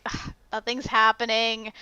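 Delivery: mildly bored grumble on first viewing; understated, resigned sigh of boredom; weary complaint. Retold or imitated. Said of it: "just 'cause I'm like".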